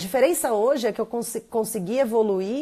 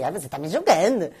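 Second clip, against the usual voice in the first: defensive mother; 4 semitones lower than usual. Retold or imitated. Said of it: "minha mãe já fala assim".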